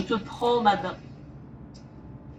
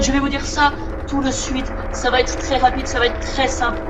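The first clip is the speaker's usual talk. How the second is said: hype presenter. Acted. Hypes viewers like presenter.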